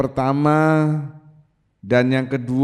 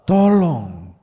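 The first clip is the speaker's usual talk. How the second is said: louder plea, falling off; loud cry for help; 5 dB louder than usual. Shown as a demonstration. Preacher demonstrates the woman's plea to the congregation, loud call. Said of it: "katakan yang keras".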